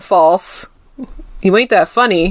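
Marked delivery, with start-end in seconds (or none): 1.4-2.3 put-on sassy put-down tone. Retelling his rant at her, imitating a sassy put-down. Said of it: "He was very sassy".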